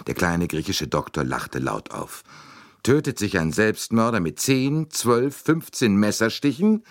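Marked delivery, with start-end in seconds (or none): 2.8-6.8 cutting question. A narrator's reading. Doctor scoffing at the suicide idea, cutting. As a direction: cut him down with each number. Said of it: "fragte er schneidend".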